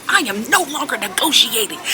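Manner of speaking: mimicked manager putting a foot down; imitated strong voice. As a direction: act out a strong-voiced manager who won't budge. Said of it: "her voice was so, like, strong".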